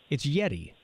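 Yeti with a clipped short final ee; Yeti said YET-ee, plain ending. Shown as a demonstration. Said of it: "Is it a Yeti or Yeti?".

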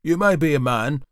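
loud, high, scolding judge; severe magistrate. A narrator's reading. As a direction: lay down the law from the bench. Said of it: "eyeing the prisoner severely".

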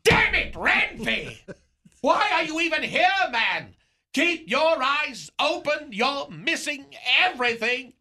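exasperated at the friend on a hike; mock exasperation. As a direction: chew out the oblivious friend theatrically. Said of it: "I said".

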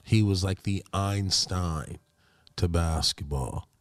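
slow, measured eulogy with long pauses; solemn tribute. Acted. Player honouring the late Kobe Bryant, solemn and measured. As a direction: deliver it like spoken tribute, phrase by phrase.

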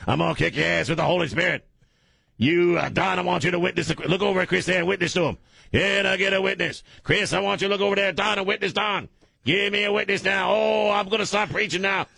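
high-pitched, fired-up preacher rant; Pastor Ray Brown. Retold or imitated. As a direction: whip yourself into revival fervor. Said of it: "that's just how the guy is".

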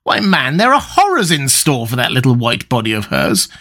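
strained, hurt disbelief; understated anguish, rising into protest; pained reproach. A narrator's reading. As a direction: reproach a friend with a touch of pain. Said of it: "with a strained touch of pain in his voice".

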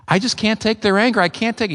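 a hint of a wounded parent giving up; overwhelmed parent. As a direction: sound like you've had all you can bear. Parent voiced, overwhelmed by anger.

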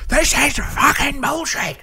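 throwing a hammed-up fit; mock tantrum. Slamming things upstairs.

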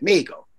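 "Mexico" tried the Spanish way as MAY-ko, with the x dropped; "Mexico" said without the ks sound, in a timid try at Spanish; Spanish-style attempt. Shown as a demonstration. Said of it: "I can't say that like that".

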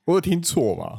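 did I hear that right; surprised disbelief. Real, not acted. Shocked at ticket price.

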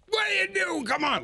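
high frustrated shout at a driver; impatient driver shouting; exasperated yell. Retold or imitated.

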